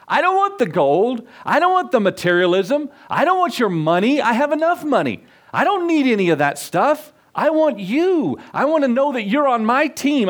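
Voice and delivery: the king, thrilled at last, declares what he truly wants; eager king. Acted. King answers the poor man.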